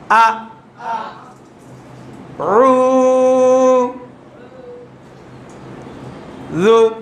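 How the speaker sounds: each syllable alone, long pause after; broken up syllables. Shown as a demonstration. Teacher breaks the word into syllables for pupils. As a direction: split the word into slow pieces. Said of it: "আমি এখন ভাঙা ভাঙা উচ্চারণ করব".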